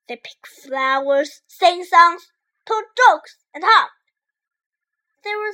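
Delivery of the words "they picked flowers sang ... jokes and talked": excited. A narrator's reading. Narrating happy walk.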